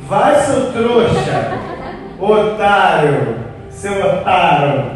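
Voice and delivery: slow, mocking with laughter; laughing mockery. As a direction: jeer at him between laughs. Apostles mocking the sinking Peter. (apóstolos zombando de Pedro rindo)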